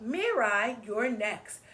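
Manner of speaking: calling the name out like a teacher; teacher calling a pupil up. Acted.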